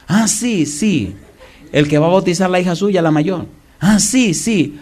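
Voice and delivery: high, surprised exclamations; husband amazed at each answer. Retold or imitated. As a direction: realize each thing with delight.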